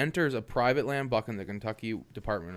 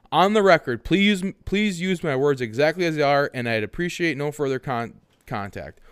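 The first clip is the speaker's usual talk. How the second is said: reading aloud haltingly; 6 dB louder than usual. Retold or imitated. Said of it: "this is his comment that he wanted read word by word".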